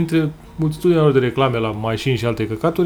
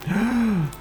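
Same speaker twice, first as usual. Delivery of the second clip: gasp; 7 semitones higher, 6 dB quieter than usual. Real, not acted. Retelling fear of losing luggage.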